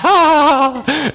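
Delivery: high, drawn-out imitation laugh; mock laugh. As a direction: imitate a family bursting out laughing. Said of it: "and we would all laugh".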